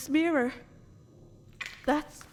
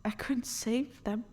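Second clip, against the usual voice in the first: broken grief; 5 dB quieter than usual. Acted. Grief over dead family.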